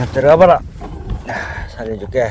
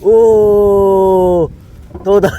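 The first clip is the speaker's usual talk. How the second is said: 높은 톤으로 들뜬 외침; excited; 7 semitones higher, much slower than usual. Real, not acted. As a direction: shout it out, thrilled by the catch. Excited catch reveal, flounder. (들뜬 목소리)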